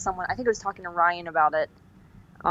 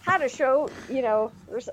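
1940s bombshell voice; 6 semitones higher than usual. Pretend. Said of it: "weird nineteen forties bomber lady voice".

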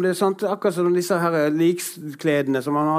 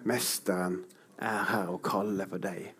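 murmured invitation, soft and intimate; hushed reverent; 7 semitones lower, 11 dB quieter than usual. Shown as a demonstration. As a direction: let the words sink in gently, almost breathed. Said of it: "la det ordet gå inn til deg".

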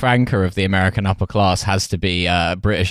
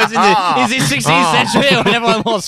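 posh voice; 11 semitones higher, 3 dB louder than usual. Pretend. Mock sixteenth century explanation.

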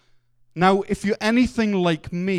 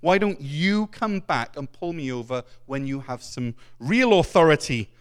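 cheeky; 3 semitones lower than usual. Acted. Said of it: "the driver cheekily says".

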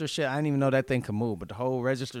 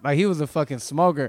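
usual speaking voice

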